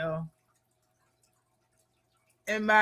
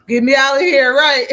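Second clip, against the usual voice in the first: mock angry yell; 3 semitones higher, 10 dB louder than usual. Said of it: "Mad at everybody".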